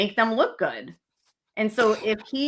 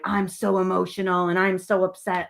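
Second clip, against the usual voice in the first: mock emotional act. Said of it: "they put on this act of".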